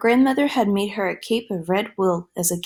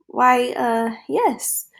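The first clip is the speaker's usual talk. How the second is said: hesitant stammer rising high; 3 semitones higher, much slower than usual. Acted. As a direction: stammer it out nervously. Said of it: "Little Red Riding Minnie stammered".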